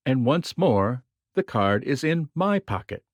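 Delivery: the card is in "my" pocket, "my" pressed a little harder; stress on my. Shown as a demonstration. Magician announcing the card's return to his own pocket, stress on "my". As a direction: lean on "my", as opposed to somebody else's. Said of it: "put some emphasis on the word my".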